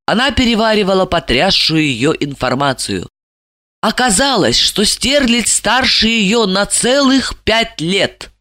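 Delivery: plain reading voice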